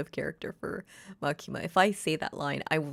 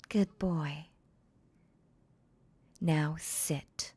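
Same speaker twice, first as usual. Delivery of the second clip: calm, commanding mistress talking to her puppy; Makima roleplay voice; much slower than usual. Acted. Voicing Makima as a dominant mistress.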